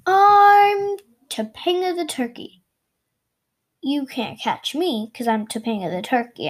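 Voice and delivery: a lightly voiced cocky turkey. Turkey character introduces itself.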